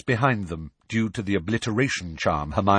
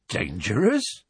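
bemused; slower than usual. Acted. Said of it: "looking genially bemused".

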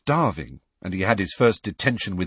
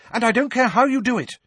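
captain's angry ultimatum, high and loud; furious order; 12 semitones higher, 4 dB louder than usual. A narrator's reading. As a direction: hammer the last words home. Angelina ends her tirade.

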